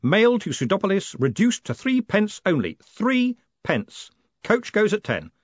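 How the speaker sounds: high, projected crowd patter; showman's announcement. A narrator's reading. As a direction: call out the bargain to a crowd. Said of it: "he shouted above the din".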